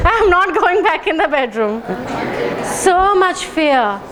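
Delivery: repeated scared phrases, half laughing; mock fear. Shown as a demonstration. Tapping the friend's lizard fear, hamming it up. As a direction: act out being terrified. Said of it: "Do it with me".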